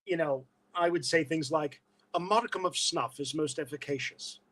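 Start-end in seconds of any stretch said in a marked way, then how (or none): 2.2-4.4 lightly theatrical Shakespearean diction; Shakespearean English. Shown as a demonstration. Recalling lessons from his father, lightly Shakespearean English. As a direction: enunciate with a touch of classical English stage polish. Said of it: "started teaching me Shakespearean English".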